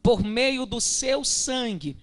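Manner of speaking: slow, measured reading of holy scripture; solemn scripture reading. Acted. Preacher reads the verse to the congregation, solemn and slow. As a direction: read it out deliberately, stretching the key words.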